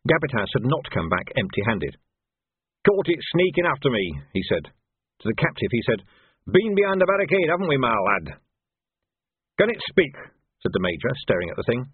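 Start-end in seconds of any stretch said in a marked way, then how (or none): 2.9-4.2 a hint of a rough old soldier; gruff trooper. Trooper speaks in narration. 6.5-8.4 teasing trooper. Acted. Trooper addresses captive. 9.6-10.2 higher, clipped officer's question; puzzled major. Acted. Major speaks in narration.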